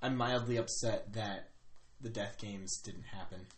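very soft, low, slow confiding; acted whisper. Player confiding disappointment to Kyrak, hushed. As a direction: lean in and murmur it slowly. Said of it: "I whisper to him".

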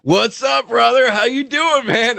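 high, buoyant bro greeting; delighted greeting. Retold or imitated. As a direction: imitate a pal lighting up on seeing someone. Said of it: "his face lit up".

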